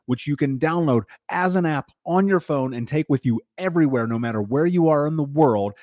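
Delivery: host pitching his own coaching program to listeners, upbeat ad read. Acted. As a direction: sell it like a radio spot, bright and driving. Host reads a sponsor ad.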